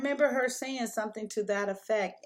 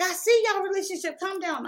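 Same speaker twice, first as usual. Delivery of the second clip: mother calming; 10 semitones higher, 4 dB louder, faster than usual. Retold or imitated. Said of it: "She's like".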